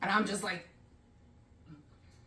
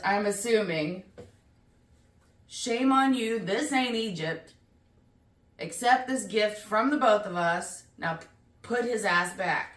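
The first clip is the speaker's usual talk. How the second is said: mock scolding; 3 semitones higher than usual. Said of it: "because the note says".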